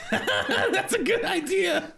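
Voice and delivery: very high, slow little creature; high-pitched creature approving; Twiggy's creature voice. Acted. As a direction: draw it out high as a tiny helper. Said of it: "he turns and goes".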